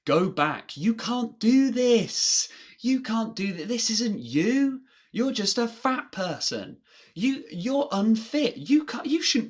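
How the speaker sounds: high, loud voice of self-doubt; screaming inner voice. Acted. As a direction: shout it like a panicking mind trying to stop you. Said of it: "everything in my mind is screaming at me to stop".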